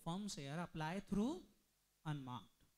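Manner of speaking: slow dictation, last word dropped low; drawn-out lead-in, then a low finish. Real, not acted. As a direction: stretch the phrase out for note-takers. Teacher dictates the second case.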